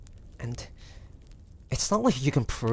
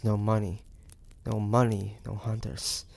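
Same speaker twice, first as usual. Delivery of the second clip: normal talking voice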